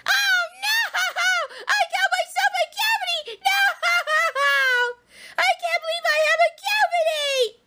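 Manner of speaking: despairing wail. Pretend. Fantasia learns of cavity.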